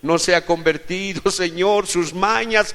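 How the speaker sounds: acted prayer building to a loud, high cry; impassioned plea. Models a distressed plea to God. (súplica apasionada que sube hasta el grito)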